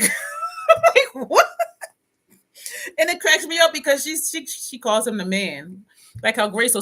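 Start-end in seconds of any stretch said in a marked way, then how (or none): 0.0-4.2 laughing. Real, not acted. Laughing at friend's joke.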